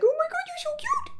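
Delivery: put-on very high, cooing baby-talk voice. Demonstrating vocal registers, the speaker does a baby-talk voice for pets. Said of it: "the voice that a lot of human beings use when they see babies or pets".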